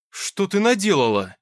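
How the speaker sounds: doomed howl. A narrator's reading. Nikita seeing his tidied room, a despairing howl. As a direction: wail at the ruined mess. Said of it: "обречённо взвыл Плахов".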